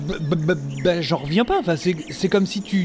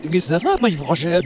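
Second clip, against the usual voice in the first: reversed speech; played backwards; much faster than usual. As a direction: talk as if the tape runs backwards. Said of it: "On dirait qu'il parle à l'envers".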